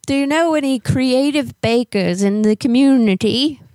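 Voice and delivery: lightly voiced old lady with a hint of English accent. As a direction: play a fussy old neighbor lady on a prank call. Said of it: "when I talk like an old lady".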